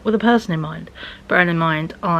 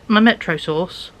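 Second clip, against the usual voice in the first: normal talking voice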